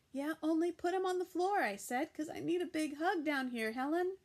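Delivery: high, loud, fast and bossy; girl bossily demanding a hug from grandma; eager demand. A narrator's reading. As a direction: insist on a hug right now.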